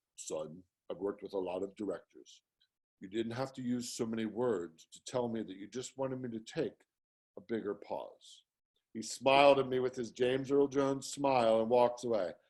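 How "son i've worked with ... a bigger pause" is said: deep, very quiet, soft voice. An actor answers a director who talked for ten minutes, in a Darth Vader voice. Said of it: "and his Darth Vader voice".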